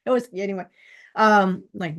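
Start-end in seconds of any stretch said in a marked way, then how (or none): none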